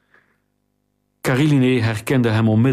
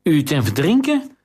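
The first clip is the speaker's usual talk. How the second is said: higher, more alarmed second take of the question; panicked repeat; 4 semitones higher than usual. A narrator's reading. Accused courtier repeats the queen's charge, rising panic. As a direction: push the panic further on the repeat. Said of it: "herhaalde hij".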